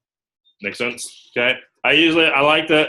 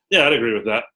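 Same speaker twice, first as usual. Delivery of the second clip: unimpressed. Shown as a demonstration. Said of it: "You see the nonverbals?".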